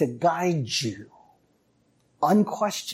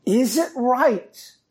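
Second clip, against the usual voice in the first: God asking; 2 semitones higher than usual. Retold or imitated. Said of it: "he asks a second time".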